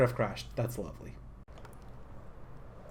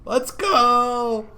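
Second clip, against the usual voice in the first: higher, louder hype cheer; 8 semitones higher, 5 dB louder than usual. Real, not acted. Dancing along for viewers, excited cheer. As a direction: cheer like you're hyping a friend.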